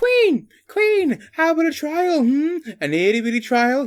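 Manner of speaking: very high, squeaky little man's voice. Reading a story aloud, the tiny crowned man appeals to the queen: squeaky voice. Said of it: "He said in a squeaky voice".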